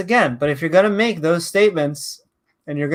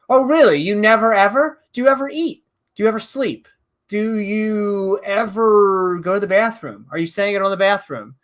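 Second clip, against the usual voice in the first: mock cross-examination; 3 semitones higher than usual. Host grilling the man who claims never ever, mock incredulous. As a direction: grill him with mock disbelief.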